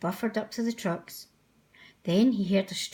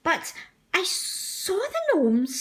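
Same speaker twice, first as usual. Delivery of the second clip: high, slow, pleading; insistent scared; 8 semitones higher, slower than usual. Acted. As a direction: plead with the Fat Controller. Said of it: "said Percy".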